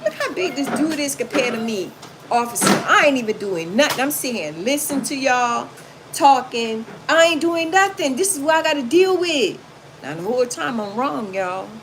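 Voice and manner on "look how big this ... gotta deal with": a higher, mock-innocent plea; innocent act. Acting innocent for the officer, higher mock plea. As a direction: play the innocent woman, lightly. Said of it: "I'm smiling like".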